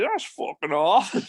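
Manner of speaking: a big Dublin voice, drawn out with a bit of lift; Dublin accent. Retold or imitated. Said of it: "big Dublin accent".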